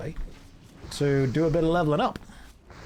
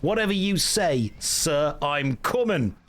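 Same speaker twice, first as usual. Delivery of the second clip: mock Green Beret calling back orders; Green Beret game voice; 3 semitones higher, slower than usual. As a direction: parrot repeated game unit responses in a put-on accent. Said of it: "all my mum hears coming from my laptop is".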